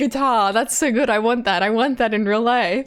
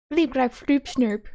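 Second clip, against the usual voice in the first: alien gibberish, starting high and dropping; alien language; 4 semitones higher than usual. Acted. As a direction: speak alien nonsense syllables. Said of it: "do I commit to the alien language?".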